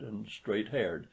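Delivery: ordinary delivery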